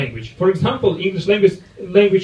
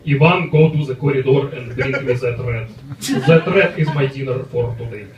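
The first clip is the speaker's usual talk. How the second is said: put-on Russian English accent; 3 semitones lower than usual. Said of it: "You know how Russians speak English".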